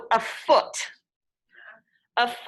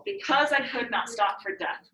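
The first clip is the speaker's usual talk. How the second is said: limping da-DUM rhythm on "Because I could not stop for death"; iambic beat. Shown as a demonstration. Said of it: "you can hear it".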